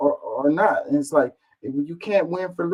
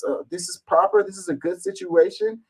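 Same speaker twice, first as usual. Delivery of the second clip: high mocking sarcasm, pitched way up; sarcastic. Mocking a commenter's praise of overwork in a squeaky high sarcastic voice. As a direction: parody her smug approval in a squeaky voice.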